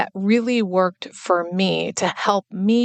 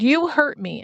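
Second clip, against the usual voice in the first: put-on higher, a small child's complaint; little girl voice; 7 semitones higher than usual. Toddler telling her dad he hurt her, higher childlike voice.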